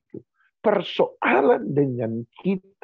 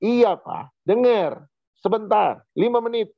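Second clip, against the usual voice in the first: high, mock child whine; child goes an octave higher; 8 semitones higher, slower than usual. Son answering his father about the bath, high mock child voice. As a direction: squeak it up high like a stalling kid. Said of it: "Dia naikin lagi satu oktav suaranya".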